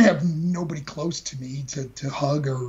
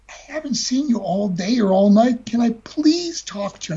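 mom begging; 5 semitones higher than usual. Retold or imitated. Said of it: "almost, like, begging me".

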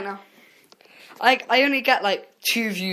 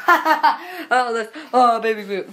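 gushing fan; 3 semitones higher, 4 dB louder, much slower than usual. Retold or imitated. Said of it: "I'll just be like".

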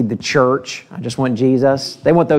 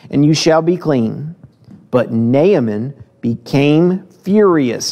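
measured, slightly raised Bible reading voice; scripture reading; 3 semitones higher than usual. Acted. Preacher reading Second Kings to the church, measured and raised. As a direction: read the passage aloud to the congregation. Reads the Naaman scripture passage.

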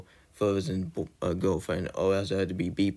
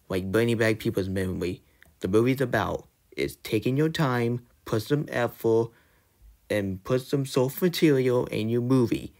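real angry rant, raised pitch; fed up and lecturing the studio, pitched up; 3 semitones higher than usual. Real, not acted. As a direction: let the frustration push your pitch up. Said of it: "I'm angry".

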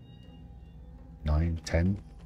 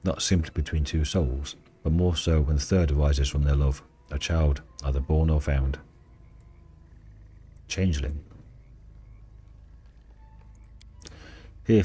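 story narration. Acted. Reads and voices the Dryad.

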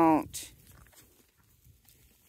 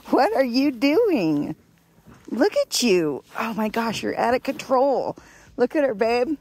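louder, delighted fuss over a wild pet; excited laughing; 3 semitones higher, 5 dB louder than usual. Real, not acted. Owner showing her partner the goat running wild, loud delighted gushing. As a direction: gush at the goat going crazy.

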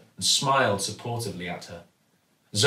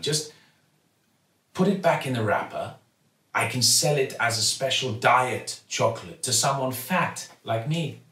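kindly shopkeeper; 2 semitones higher than usual. Acted. Raj jokes kindly.

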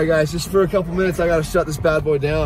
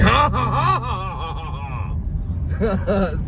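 big put-on laugh that tails off softer; mock laughing; 2 semitones higher, 5 dB quieter, much slower than usual. Driver joking that he's not crying but laughing, mock laughing. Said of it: "He's laughing".

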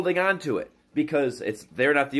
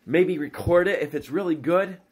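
excited gushing; 5 semitones higher than usual. Retold or imitated. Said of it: "And I'm just like".

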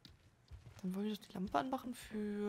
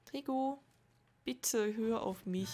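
calling out, then slow pleading; 4 dB louder, slower than usual. Real, not acted. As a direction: call his name, then beg slowly. Ruft und bittet den Begleiter. (flehend rufen, dann langsam bitten)

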